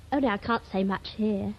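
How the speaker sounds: ordinary delivery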